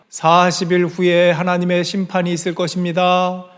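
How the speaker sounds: a mild mock proclamation to the city; proclaiming. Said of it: "외칩니다".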